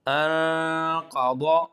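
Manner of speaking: انقضا with thick heavy ض, slow. Shown as a demonstration. Teacher reading to students, heavy ض drawn out. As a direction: read انقضا slowly with a full heavy ض. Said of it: "موٹا کر کے پڑھیں گے".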